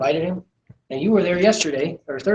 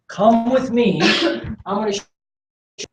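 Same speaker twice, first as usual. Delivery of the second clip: confident command; 3 semitones higher than usual. Retold or imitated. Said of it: "he would say".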